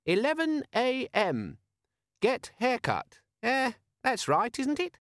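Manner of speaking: high, slow, muffled device voice; a chirpy gadget buried in sand. Acted. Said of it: "a cheerful, if somewhat muffled voice".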